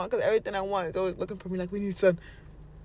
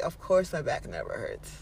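casual certainty; 5 semitones lower than usual. Acted. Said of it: "be like".

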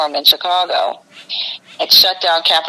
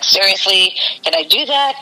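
retold disbelief; 3 semitones higher than usual. Retelling own disbelieving reply on phone.

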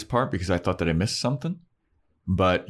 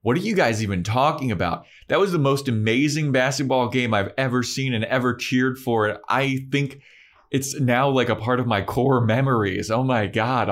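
gushing excitement; 5 semitones higher than usual. Retold or imitated. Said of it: "Cordelia walks over and she's like".

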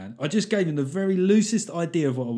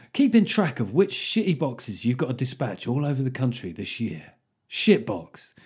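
mock advert read. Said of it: "where there would be an advert".

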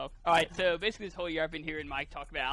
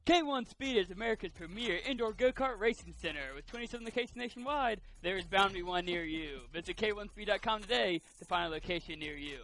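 high, booming monster truck ad; monster truck announcer; 4 semitones higher than usual. Pretend. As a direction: hype it like a monster truck rally. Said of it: "like, a monster truck announcer".

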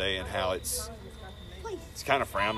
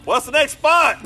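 much higher and louder gasping question; loud, winded; 11 dB louder, slower than usual. Retold or imitated. Wrestlers meant to whisper but shout the next spot. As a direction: bellow it out while still winded. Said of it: "But it's like".

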